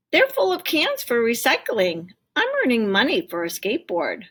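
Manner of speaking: put-on high, eager boy; child's voice. A narrator's reading. Tim telling mom about his cans, high child voice. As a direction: answer mom like an excited kid.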